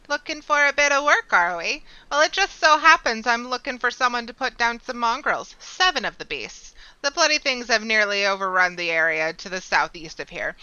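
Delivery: loud, lively rough mercenary; gruff quest giver. Acted. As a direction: bark it like a hired brute. Voices gruff NPC quest giver.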